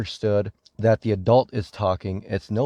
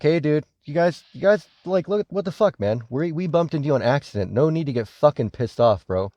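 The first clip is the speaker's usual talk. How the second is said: higher, imitated complaining old man; mock senior citizen; 4 semitones higher than usual. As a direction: play the annoyed older tuber, pitched up. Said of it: "senior citizens at least, are like".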